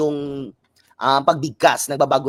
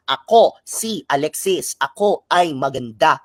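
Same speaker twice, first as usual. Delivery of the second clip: syllable-timed demo. Shown as a demonstration. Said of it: "papantig tayo magbigkas ng salita".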